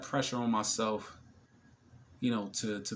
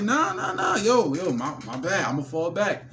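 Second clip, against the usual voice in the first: much higher, louder playful backing off; mock retreat; 7 semitones higher, 7 dB louder than usual. Him to the table of men, mock backing off. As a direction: exaggerate backing away. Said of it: "I was like".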